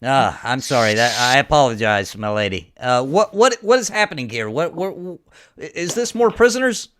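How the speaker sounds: lightly voiced apologetic man, rising into confusion; flustered apology. Game master voices apologetic, confused camp man.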